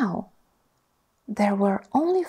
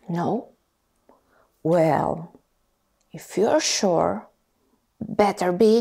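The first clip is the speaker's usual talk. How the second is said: sorting hat voice; 3 dB louder than usual. Acted. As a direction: ponder aloud like a wise old hat. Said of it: "said a small voice".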